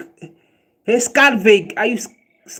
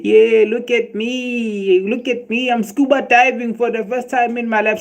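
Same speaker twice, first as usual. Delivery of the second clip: mock excited show-off; mock carefree swimmer; 5 semitones higher than usual. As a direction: brag like a fool diving in a puddle. Imitating careless celebrating scuba diver.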